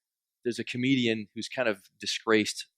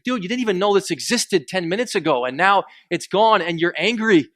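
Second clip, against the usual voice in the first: incredulous rebuke; 6 semitones higher, 7 dB louder than usual. Retold or imitated. Comedian scolding passenger.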